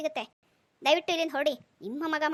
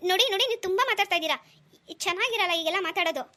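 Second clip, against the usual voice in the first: irritated rebuke; 2 semitones higher, 3 dB louder than usual. Acted. Husband cuts off rude neighbour.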